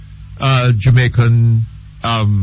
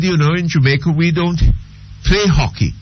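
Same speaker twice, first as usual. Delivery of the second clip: put-on Jamaican accent; 4 semitones higher than usual. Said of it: "And he said".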